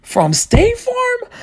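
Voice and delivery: very high, slow, stretched question; clueless disbelief. Acted. Confused kid asking neighbors about Jake, clueless. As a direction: squeak it out slowly, totally puzzled.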